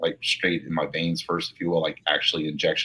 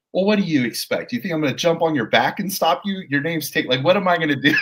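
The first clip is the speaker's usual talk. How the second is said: a lightly British lady, much higher; cheery British partner greeting a colleague; mock British accent; 10 semitones higher, 5 dB louder than usual. British partner answering her colleague, breezy mock British. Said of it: "and she's British".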